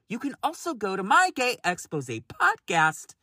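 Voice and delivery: winded, gasping between words; breathless read, short on air; out of breath. Real, not acted. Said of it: "Ugh, I'm so out of breath".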